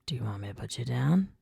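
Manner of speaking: quick soft whispered tease; teasing whisper. A narrator's reading. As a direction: whisper it mischievously. Jake's mischievous whisper.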